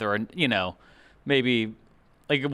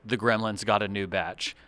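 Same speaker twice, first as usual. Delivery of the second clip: flat read; 3 semitones lower, 4 dB quieter than usual. Shown as a demonstration. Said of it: "I'll say it flat".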